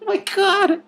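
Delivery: high, slow cry through laughter; real laughing squeal; real laughing outburst. Real, not acted. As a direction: crack up mid-reading.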